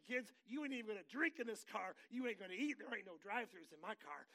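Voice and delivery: hammed-up protective car owner; mock strict dad. Dad warns kids about new car, mock stern.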